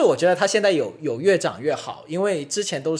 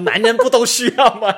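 higher, louder mock questioning; retold challenge; 6 semitones higher, 6 dB louder than usual. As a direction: imitate someone demanding an answer. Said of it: "还被质问说".

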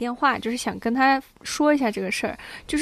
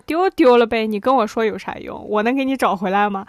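dismissive dad; 4 dB louder than usual. Retold or imitated. Retelling dad's dismissive reply.

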